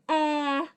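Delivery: "eh" as the short E in net; short E sound. Shown as a demonstration. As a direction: say "eh" as an isolated short-E vowel. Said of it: "Those are the short vowel sounds".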